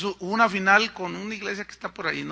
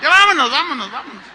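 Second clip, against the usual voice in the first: loud call, higher pitched; 8 semitones higher, 11 dB louder, faster than usual. Retold or imitated. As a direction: round everyone up, call it loud. Calling team off the field. (llamando a voces, más alto y agudo)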